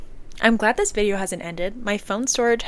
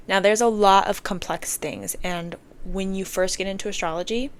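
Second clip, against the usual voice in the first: breathless from talking fast; out of breath. Real, not acted. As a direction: talk out of breath. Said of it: "I'm out of breath again".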